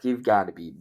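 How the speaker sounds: mildly indignant, quoting your own first reaction; can't-believe-this tone, lightly miffed; retold annoyance. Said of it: "I was kinda pissed".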